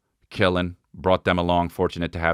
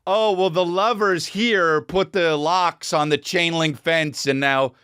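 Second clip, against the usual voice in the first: higher slow mock guide voice; higher sugary mock explanation; mocking tour guide; 10 semitones higher, slower than usual. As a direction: parody a sappy guide. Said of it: "it's like".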